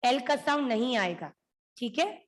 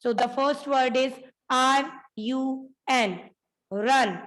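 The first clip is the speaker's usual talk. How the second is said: letter by letter for the class; spelled out letters. Shown as a demonstration. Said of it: "spelling aloud for class". (अक्षर-अक्षर बोलकर)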